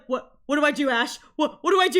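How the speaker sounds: a Pikachu lost for what to do; panicked Pikachu. Retold or imitated. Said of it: "to be like".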